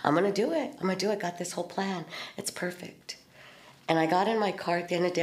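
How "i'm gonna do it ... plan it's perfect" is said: panicked excitement. Retold or imitated. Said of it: "I was just like".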